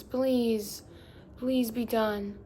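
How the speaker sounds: annoyed begging; exasperated pleading. Real, not acted. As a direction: beg it to stop, fed up. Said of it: "It's annoying me too".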